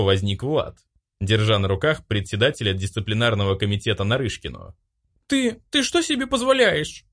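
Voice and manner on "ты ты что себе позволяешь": put-on high, outraged girl's cry; scandalized, she shrieks at him; indignant cry. Caught in his arms, she cries out indignantly. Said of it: "закричала возмущённо она".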